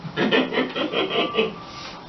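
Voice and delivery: rapid airy giggle; real laugh at your own skit; wheezy giggle. Real, not acted.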